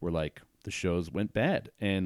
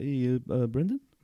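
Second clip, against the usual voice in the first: play-acted timid, hesitant, halting, pitched-up voice; 5 semitones higher than usual. Storyteller recalls the new bartender coming up to him, imitating Job's timid voice. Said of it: "really timidly".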